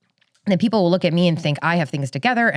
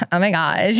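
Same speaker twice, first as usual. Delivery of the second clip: lightly voiced Valley Girl exclamation; Valley Girl lilt, rising at the end. Shown as a demonstration. Showing friend an LA girl, questioning Valley Girl lilt. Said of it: "Do me a Valley Girl".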